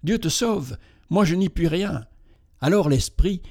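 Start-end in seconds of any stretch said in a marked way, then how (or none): 0.0-2.0 trembling. Acted.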